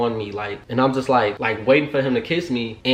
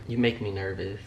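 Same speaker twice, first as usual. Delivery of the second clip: nervous; 10 dB quieter than usual. Retold or imitated. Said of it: "that's how I was".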